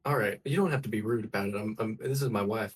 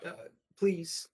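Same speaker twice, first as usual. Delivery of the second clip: pleading husband; 9 semitones higher, slower than usual. Acted. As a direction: ask the crowd kindly but insistently. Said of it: "he's like".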